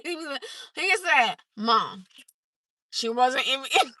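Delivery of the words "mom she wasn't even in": put-on understated deadpan quote of a kid; dry mimicry before cracking up; imitating serious son. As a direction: say it seriously, no emotion. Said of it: "he be so serious".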